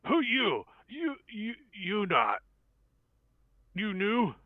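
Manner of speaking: high-pitched broken-speech goblin; goblin speaking Goblin. Acted. Game master's goblin questions a newcomer, high goblin voice. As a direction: squeak it out like a suspicious little goblin. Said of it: "he says in Goblin".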